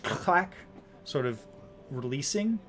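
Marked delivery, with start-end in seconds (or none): 0.0-0.5 sharp, higher-pitched clack of a lock. Acted. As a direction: imitate a lock snapping free. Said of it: "you hear the sound of a lock".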